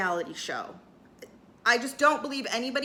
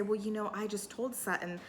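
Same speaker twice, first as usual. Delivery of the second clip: calmly; 4 semitones lower, 7 dB quieter than usual. Retold or imitated. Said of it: "calmly say".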